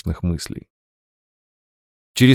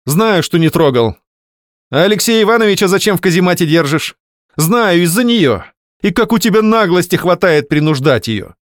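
angry reproach; 9 semitones higher, 5 dB louder than usual. Acted. Wife confronting husband.

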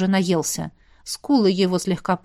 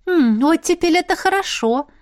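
higher, pleased musing; smiling; 9 semitones higher than usual. A narrator's reading. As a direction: say it approvingly through a smile. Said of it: "улыбнулась я".

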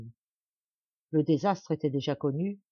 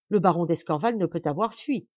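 indignant interruption; 5 dB louder than usual. Acted. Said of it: "interrompit-elle".

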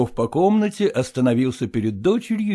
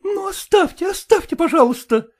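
high, exasperated brush-off; annoyed daughter brushing off the suitor; irritated cry. A narrator's reading. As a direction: wave him away impatiently. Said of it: "крикнула ему Катерина Петровна".

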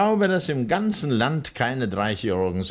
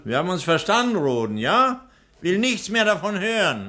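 stern rebuke; 7 semitones higher than usual. Acted. Doctor scolding servant.

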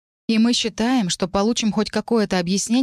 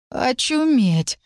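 slow, stunned, pitched up; squeezed-out amazement; 7 semitones higher, much slower than usual. Acted. Elisar stunned by the news, slow squeezed-out gasp of a word. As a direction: drag the word out in disbelief. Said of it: "— выдавил Элисар".

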